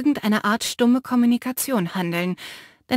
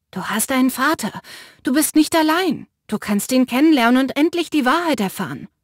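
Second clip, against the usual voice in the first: excited; 3 semitones higher, 4 dB louder than usual. Acted. Finn eagerly urges Matteo.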